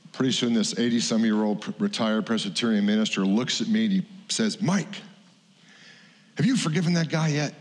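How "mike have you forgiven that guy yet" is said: put-on pointed, raised question from an old pastor; old pastor's challenge. Old minister confronting Mike, pointed and raised. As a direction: press him like a stern old minister.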